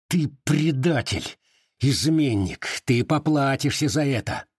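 mock angry accusing yell, slowed at the start; yelling accusations. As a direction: hurl accusations at a traitor. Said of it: "выкрикивал он".

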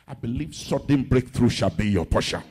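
low-pitched, firm pulpit declaration; confident prayer over the congregation. Real, not acted. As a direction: declare the blessing low and steady. Prayer declaration, first take.

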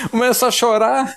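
emotional burst; overwhelmed. Real, not acted. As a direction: blurt it out, moved. Moved, laughing at himself.

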